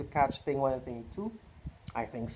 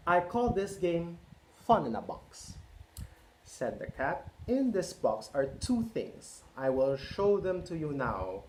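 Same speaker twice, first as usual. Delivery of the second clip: lively picture-book read-aloud; reading to children; 3 semitones higher than usual. A narrator's reading. Parent reading Cat in the Hat to children, lively. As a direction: read it out to a roomful of kids.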